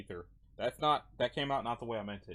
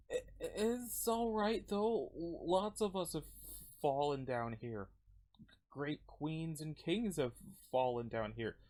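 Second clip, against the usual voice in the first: slow, halting, resigned voice; resigned character; 2 semitones higher, 4 dB quieter, slower than usual. Acted. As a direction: speak haltingly, with pauses, resigned.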